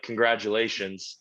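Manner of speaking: lightly British Congratulations; a hint of a British accent. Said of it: "in a British accent".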